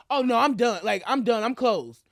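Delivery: mock a cashier announcing she's done; retold yelling. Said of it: "She started yelling out like".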